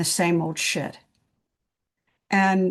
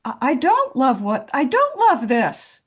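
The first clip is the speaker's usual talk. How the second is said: higher and louder, retorting hotly; mock defiant outburst; 5 semitones higher, 3 dB louder than usual. Retelling her reply to the nagging inner voice, defiant. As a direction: snap back at the inner voice, half acted. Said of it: "And I'm like".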